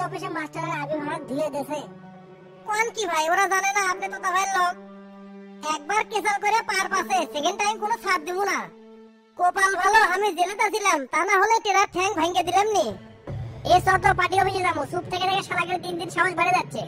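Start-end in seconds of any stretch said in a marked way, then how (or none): 5.8-16.8 heated, raised-pitch threatening rant; worked-up, menacing outburst; angry threat. Acted. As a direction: fume about a rival, voice pushed up. Gang member threatening an absent rival.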